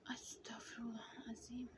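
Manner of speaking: exasperated prayer. Retold or imitated. Mother seeing every toy bitten, quiet exasperated prayer. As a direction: let it out quietly, resigned.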